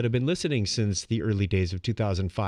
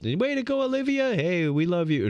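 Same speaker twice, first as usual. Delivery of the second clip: cheery family message; 7 semitones higher than usual. Retold or imitated. Quoting family chat cheer.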